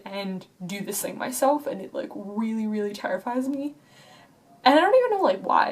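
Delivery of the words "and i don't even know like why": exasperated burst. Real, not acted. Frustrated outburst.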